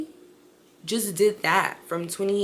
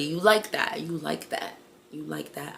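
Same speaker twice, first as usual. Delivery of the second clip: flirty fading; 3 semitones lower than usual. Retold or imitated. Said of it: "it's getting flirty".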